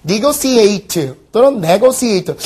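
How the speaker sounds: both ways of saying negotiate, slowly; two pronunciations. Shown as a demonstration. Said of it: "발음은요?".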